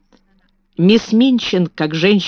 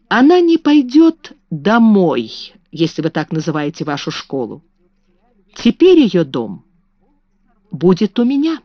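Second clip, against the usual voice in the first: firm declaration. Acted. Carrisford firmly claims Sara.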